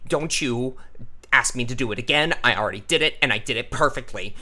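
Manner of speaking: quick, brief percussive phrases; lightly voiced neurotic, rattling out short statements; neurotic, clipped character. Shown as a demonstration. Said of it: "it's very quick and brief".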